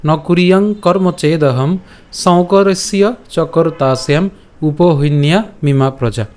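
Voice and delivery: slow chanted shloka recital; Sanskrit verse recital. Shown as a demonstration. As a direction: recite the verse slowly, syllable by syllable. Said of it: "তো আজকের শ্লোকটি হলো". (ধীরে শ্লোক পাঠ)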